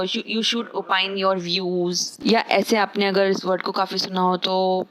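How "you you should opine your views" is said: slow example read. Shown as a demonstration. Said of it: "example sentence".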